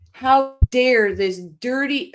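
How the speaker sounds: real anger. Real, not acted. Livestream host to viewers, raging at the woman who took the father, angry. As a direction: spit out each word in real anger. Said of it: "I'm getting angry".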